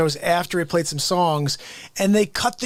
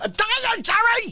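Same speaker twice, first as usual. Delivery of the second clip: higher-pitched, put-on frantic sitcom-style voice. Doing an impression of George calling to Jerry: George Costanza impression. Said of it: "I know I could do George".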